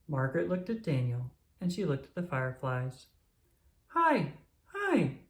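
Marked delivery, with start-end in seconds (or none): 3.9-5.2 put-on high giggly toddler voice; a tiny toddler giggling hi. A narrator's reading. Margaret giggles hi to the fireflies, high toddler giggle. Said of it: "she giggled".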